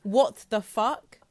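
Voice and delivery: slow, drawn-out stunned question; slow disbelief. Real, not acted. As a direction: let the disbelief stretch out slowly. Repeats in disbelief.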